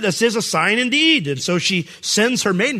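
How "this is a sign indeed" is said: mock excitement. She sees the box floating.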